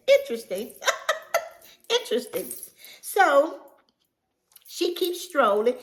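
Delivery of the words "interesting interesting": hint of an amused remark; mock interesting. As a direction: repeat her word with a knowing tease. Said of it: "And she said".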